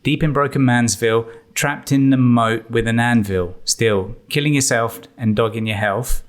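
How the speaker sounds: lightly put-on Los Angeles rap accent; a rapper's accent. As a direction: rap the lines in a mild LA West Coast accent. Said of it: "I'm gonna say it in his accent".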